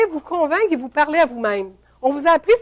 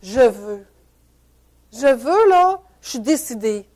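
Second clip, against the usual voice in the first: determined self-talk; 4 semitones lower, slower than usual. Shown as a demonstration. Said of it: "je vais lui dire à la voix".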